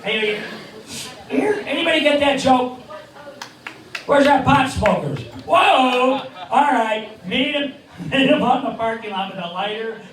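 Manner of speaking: high, lisping boxer voice, way up in pitch; squeaky Mike Tyson calling out to the crowd; Mike Tyson impression. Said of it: "and here's Mike".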